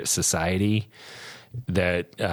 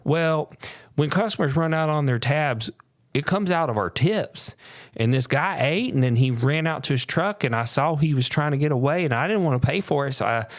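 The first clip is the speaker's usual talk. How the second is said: waitress voice; 7 semitones higher than usual. Retold or imitated. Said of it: "And she goes".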